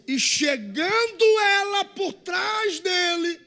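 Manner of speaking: loud, high, drawn-out pulpit cry; stretched, shouted Bible quote; scripture proclaimed. Acted. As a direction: proclaim the verse slowly at full voice. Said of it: "A Bíblia diz".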